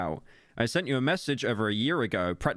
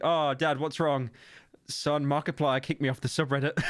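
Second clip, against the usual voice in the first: mock sobbing parent; 2 semitones higher than usual. Acted son and crying parent.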